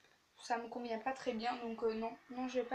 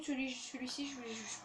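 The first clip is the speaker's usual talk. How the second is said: tired, tongue-tripping hesitation; real stammering; 5 dB quieter than usual. Real, not acted. Vlogger tired after a day of classes, stammering. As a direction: stumble and restart on the first words. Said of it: "Désolée si je bégaye".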